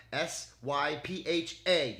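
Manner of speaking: slow letter by letter spelling; spelling Sypha slowly for the AI. Shown as a demonstration. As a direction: spell each letter deliberately. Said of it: "how to spell her fucking name".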